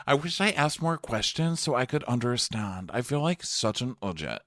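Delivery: high, whiny mock regret; lightly voiced sulky apology; imitating Cameron. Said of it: "And she goes".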